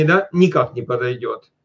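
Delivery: ordinary talk, nothing marked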